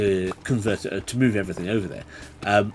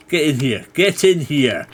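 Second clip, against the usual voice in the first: goading call; 4 semitones higher, 7 dB louder than usual. Real, not acted. Luring the mob into a trap.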